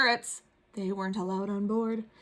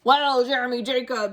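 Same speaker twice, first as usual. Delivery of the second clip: pirate voice; 2 semitones higher, 5 dB louder than usual. Acted. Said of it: "he said".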